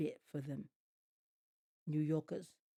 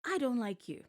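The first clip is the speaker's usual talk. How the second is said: higher and louder, heated; angry outburst; 6 semitones higher, 4 dB louder than usual. Real, not acted. Reacting to a rapper on the show, angry outburst. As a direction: snap it at the screen. Ranting at contestant on screen.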